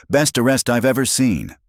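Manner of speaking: high, loud jeering shout. A narrator's reading. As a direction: call it out across the crowd. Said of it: "A man shouted".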